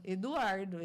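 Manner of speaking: mildly stern, firm name-call; angry mum calling. Shown as a demonstration. Mother calling her son when cross, mock stern. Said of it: "Eduardo é quando eu tô brava".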